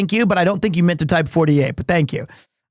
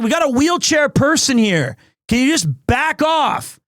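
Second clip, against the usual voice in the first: worker yelling; 5 semitones higher than usual. Retold or imitated. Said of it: "He was like".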